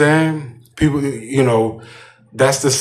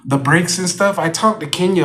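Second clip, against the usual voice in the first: put-on emphasizing girl; 6 semitones higher than usual. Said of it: "she wanna emphasize".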